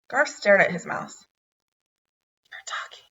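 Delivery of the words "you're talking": breathless, unvoiced whisper of amazement; astonished whisper. A narrator's reading. Boy whispering in shock to his talking mouse. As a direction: barely breathe it, stunned. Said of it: "in an astonished whisper".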